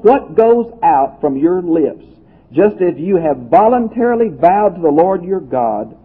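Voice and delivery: deliberate, emphatic reading from Deuteronomy; scripture reading. Acted. Preacher reading a passage on vows to the congregation, emphatic scripture reading. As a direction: proclaim each clause of the law.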